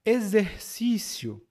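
"Exercício" as a teaching word, with a clear z; z sound. Shown as a demonstration. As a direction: model "Exercício" as e-zer-cício. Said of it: "O primeiro é Z".

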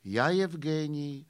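slow, weighty recital of the line; measured Russian-flavoured poem reading. Acted. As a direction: declaim it slowly like a poet. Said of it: "básní".

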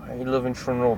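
playful Russian accent. Shown as a demonstration. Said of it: "You need to say with a Russian accent".

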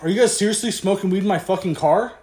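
rapid accusing question, lightly acted; dead serious. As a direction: press the question, mock-stern. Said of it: "he was dead fucking serious".

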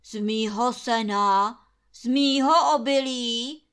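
loud, sputtering indignant landlord. A narrator's reading. Landlord sputtering at the servants over his hay, loud and indignant. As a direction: spit the words out like an angry hamster. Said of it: "prská Trautenberg jak křeček".

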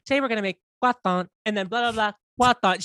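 mock TV chef savoring croissant with a lisp; light imitation of a cooking host; Ina Garten. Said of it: "with, like, the lisp".

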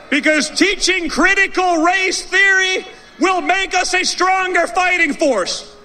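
sarcastic. Acted. Mocking the woke military claim.

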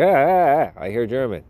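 mock thrill at hearing German; imitating an excited German listener. German listener perks up at hearing German, excited. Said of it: "You're like".

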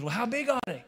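high Cajun character voice; Cajun accent. Acted. Boudreaux asking Thibodeau about bad guys, Cajun accent. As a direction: ask it in a high comic Cajun voice. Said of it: "start talking like a Cajun".

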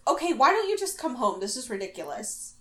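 lightly voiced motherly exasperation; exasperated mom. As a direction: retell it as a worried, impatient mom.

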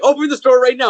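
high-pitched mock order; mock demand. Adam Scott's character demanding the door be opened, mock urgent demand.

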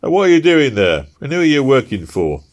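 loud, high gruff constable voice; a stern London bobby challenging him; london policeman. Acted. Policeman voice in story.

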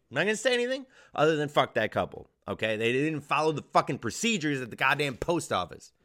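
indignant outburst, punching the swear words; heated rant. Real, not acted. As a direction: get worked up and rant. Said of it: "I got heated".

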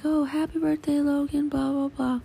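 high, mock-cheery well-wisher; imitating birthday greeters. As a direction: lightly mimic people calling birthday wishes.

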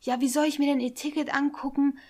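imitating an indignant driver. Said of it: "richtig mit erhobener Stimme".

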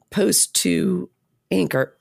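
hoarse, voice giving out; rough, fading voice; losing voice. Real, not acted. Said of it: "I'm losing my voice".

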